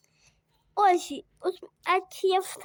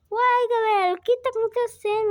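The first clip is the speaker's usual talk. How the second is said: teacher asking; 5 semitones higher, 5 dB louder than usual. Retold or imitated. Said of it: "Ela perguntou".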